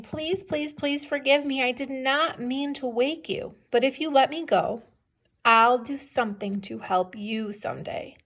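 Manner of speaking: lightly voiced mouse begging for its life; a touch of high-pitched begging; pleading. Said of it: "He's pleading for his life".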